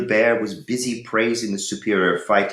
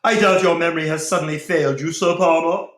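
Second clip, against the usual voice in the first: higher, louder and fast voice of the Templar; Templar's voice; 9 semitones higher, 6 dB louder, faster than usual. A narrator's reading. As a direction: accuse him sharply and quickly. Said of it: "wrong voice".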